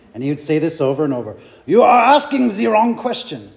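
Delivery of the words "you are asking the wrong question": badly done heavy Japanese accent, raised voice. Quote what a seminary professor would say over and over, as Dr. Masaki, bad heavy Japanese accent. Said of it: "heavy Japanese accent".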